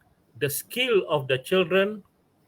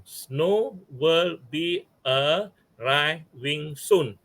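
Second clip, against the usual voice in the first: very slow syllable count; much slower than usual. Shown as a demonstration. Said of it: "Seven syllables".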